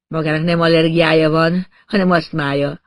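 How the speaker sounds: smiling woman. Acted. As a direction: correct him with a sly smile in the voice. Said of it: "mosolygott az asszony".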